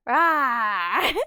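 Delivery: growling bear roar. Shown as a demonstration. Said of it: "a bear roar".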